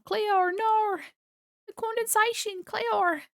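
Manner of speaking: high panicked cry after Clear; calling her character in hammed-up panic; mock alarmed call.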